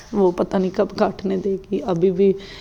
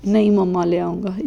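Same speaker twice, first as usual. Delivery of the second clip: ज़िद्दी बच्चे की नकल; 6 dB louder than usual. Retold or imitated. Son begging mother for money.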